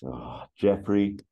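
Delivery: slow sighing opening, rising into the question; acted weary exasperation; exasperated sigh. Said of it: "Axel sighs and then just says".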